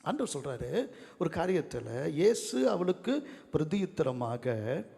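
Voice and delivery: usual speaking voice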